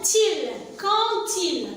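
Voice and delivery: "til. Quand il" slowly linked with a clear T; liaison with T. Shown as a demonstration. Teacher shows children the liaison between D and il, T liaison. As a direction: join "Quand il" with a T sound, as "kan-til". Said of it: "je fais la liaison entre le D et il".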